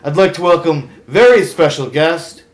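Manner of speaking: loud, showy host delivery; talk show host. Acted. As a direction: welcome the guest like a TV host. Hosts a TV talk segment.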